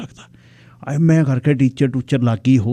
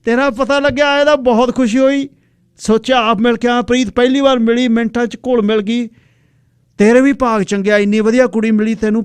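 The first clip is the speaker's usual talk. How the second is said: woman's voice; 11 semitones higher, 4 dB louder than usual. Acted. Old classmate woman greets him.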